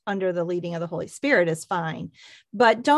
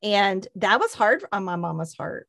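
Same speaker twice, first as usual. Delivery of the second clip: ordinary talk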